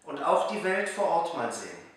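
measured rhymed-verse reading with pauses between lines; poem recital. Acted. Reciting a New Year poem for viewers learning German, measured poem recital. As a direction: recite it line by line, letting each rhyme land.

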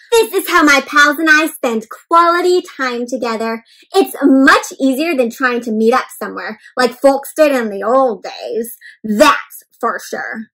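a smug homebody sure of himself; a hint of a contented couch potato. Couch Potato's lines in book.

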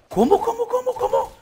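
very high-pitched, incredulous squeal; squeaky with real astonishment; stunned disbelief. Real, not acted. Disbelief at a game discovery.

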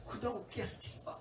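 hushed unvoiced whisper in the dark. Husband whispering to his wife at night, hushed whisper. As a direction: whisper so the baby's room stays quiet.

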